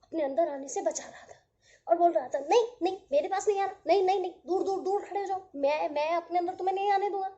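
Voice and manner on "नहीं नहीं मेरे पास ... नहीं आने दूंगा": loud grumpy cloud refusing entry, fast; a cloud barking at the droplets to keep out; grumpy cloud shouting. Acted.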